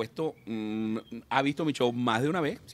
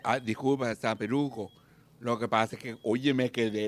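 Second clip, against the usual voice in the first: softer, lower, abashed; scolded drunk apologizing meekly; sheepish apology; 4 semitones lower, 6 dB quieter than usual. Acted. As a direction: shrink back and apologize. Drunk scolded by Saint Peter.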